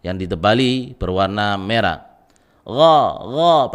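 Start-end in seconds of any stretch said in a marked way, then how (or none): 2.6-3.7 "Gha, gha" voiced far back, heavy and o-coloured; dark, rounded "Gha", not a k or g; thick ghain. Shown as a demonstration. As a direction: drill "Gha, gha" with raised tongue back. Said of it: "pangkal lidah naik".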